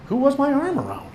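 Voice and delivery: high-pitched alarm without extra volume; panicked inner shout. A narrator's reading. Boy forgetting his date's name, shouting inside his head. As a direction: let the question leap up high, a mental yelp. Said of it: "My mind shouted the question so loudly".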